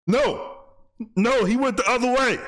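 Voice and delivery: high-pitched protest to the pursuers; urging on a chase. Pretend. Host redirecting police who chase a runner, high calling out. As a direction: call out a frantic correction.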